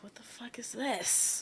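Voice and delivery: slow, whispered "what the fuck is this?"; disbelieving whisper. Retold or imitated. In Berlin, baffled by weak drinks, a slow whisper. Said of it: "and I'm like".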